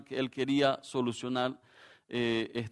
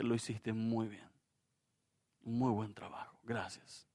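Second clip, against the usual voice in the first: much softer, tender words of thanks; gentle praise; 4 semitones lower, 9 dB quieter than usual. Retold or imitated. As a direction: say it quietly like a father should have. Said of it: "lo único que le dije fue".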